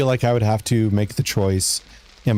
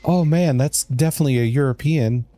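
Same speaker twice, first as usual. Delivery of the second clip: obvious European accent; 4 semitones higher than usual. Shown as a demonstration. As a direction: lay the European accent on thick. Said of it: "It's not supposed to be like".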